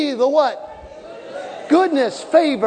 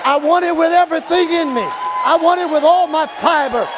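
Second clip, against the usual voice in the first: full-force preaching; 3 semitones higher than usual. Acted. Preacher driving the congregation to want it, full force. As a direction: push it hard and fast.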